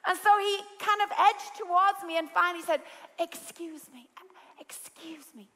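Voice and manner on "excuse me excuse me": hushed, breathy whisper trying not to intrude; soft whisper. Retold or imitated. A polite friend whispering to the host across the lounge. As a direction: whisper it politely so nobody is disturbed. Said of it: "in a very soft voice".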